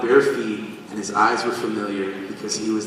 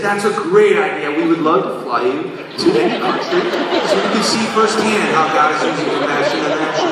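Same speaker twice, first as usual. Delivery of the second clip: eager organizer; 4 semitones higher, 4 dB louder than usual. Retold or imitated.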